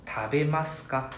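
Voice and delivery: Tabemasu ka said slowly, falling at the end; Japanese pronunciation. Shown as a demonstration. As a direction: model Tabemasu ka for students. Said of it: "next one".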